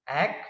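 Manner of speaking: "ak" said as a separate syllable; isolated first syllable. Shown as a demonstration. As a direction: break off "ak" on its own. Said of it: "two syllables".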